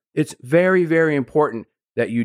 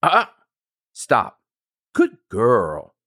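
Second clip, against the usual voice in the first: steady and subtle, no fuss; calmly redirecting a barking puppy; slower than usual. Shown as a demonstration. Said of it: "Make it very subtle. Make it very calm".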